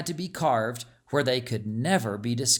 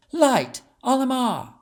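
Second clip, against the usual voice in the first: much higher, louder incantation; spell command; 10 semitones higher, 5 dB louder than usual. A narrator's reading. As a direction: call the spell out with power. Casting a light spell.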